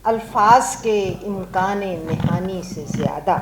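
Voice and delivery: declaimed verse, pausing after each half of the couplet; ghazal recitation. Acted.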